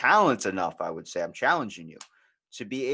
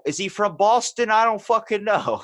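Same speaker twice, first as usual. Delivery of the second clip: exasperated player; 12 semitones higher, 9 dB louder than usual. Retold or imitated.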